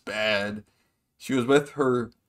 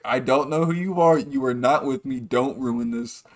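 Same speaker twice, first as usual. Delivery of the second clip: louder, firm and dead serious; a mock stern warning to an embarrassing friend; 3 dB louder than usual. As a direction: flip the switch and lay down the law. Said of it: "he gets so serious".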